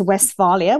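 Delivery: Westphalia with a broad 'ah', west-FAH-lia; corrected pronunciation. Shown as a demonstration. Interviewer reverting to her guest's version, Westphalia with an 'ah'. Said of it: "which is the correct pronunciation".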